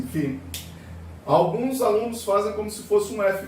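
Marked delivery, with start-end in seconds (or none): 0.0-0.4 φ said as "fi", calm and clear; φ pronounced "fi" in a gentle teaching voice; pronounce phi. Shown as a demonstration. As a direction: model φ as "fi" for the class to repeat. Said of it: "a pronúncia é assim".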